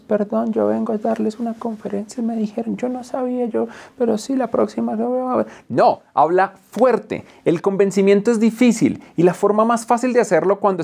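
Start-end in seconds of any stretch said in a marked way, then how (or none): 0.1-5.5 high, soft, apologetic mumble; timid speaker. Retold or imitated. Mocking a timid speaker who apologizes on stage, high and soft. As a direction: shrink away like a nervous speaker. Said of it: "tampoco está bien hablar como".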